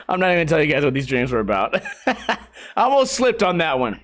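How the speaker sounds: amused, laughing admission. Real, not acted. Vlogger almost revealing his dreams, laughing. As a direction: laugh through nearly letting it slip.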